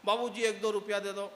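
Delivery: put-on pleading beggar boy voice; begging child. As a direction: whine for a coin. Beggar boy asks for money.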